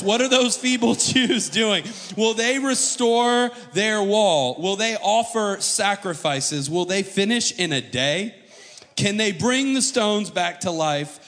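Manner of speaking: loud, high, sneering taunt; mocking trash talk. Sanballat taunting the Jews in front of his army, loud mocking jeer. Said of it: "This is a trash talking match".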